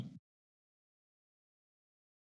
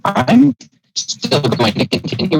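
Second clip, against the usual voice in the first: robotic glitching mic; glitchy robot voice over a bad mic; 3 semitones higher than usual. Real, not acted. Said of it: "You just sound like a robot".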